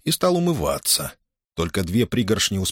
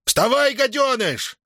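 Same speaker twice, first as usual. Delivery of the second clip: much higher furious order; angry bark; slower than usual. A narrator's reading. Master barking the boy out of bed, furious. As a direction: snap him awake with contempt. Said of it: "рявкнул".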